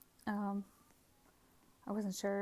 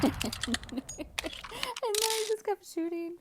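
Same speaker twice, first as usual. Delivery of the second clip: slow, much higher words squeezed through laughter; laughing through it; 12 semitones higher, much slower than usual. Real, not acted. Recalling frantic shooting, laughing. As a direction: giggle the words out slowly.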